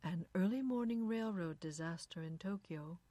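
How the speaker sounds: lightly voiced smooth newsreader; suave radio announcer. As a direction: read the news smoothly, giving nothing away. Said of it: "was suave and noncommittal".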